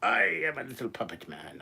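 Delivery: a hint of a squeaky puppet. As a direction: play a silly little puppet. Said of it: "Poof, you're a puppet".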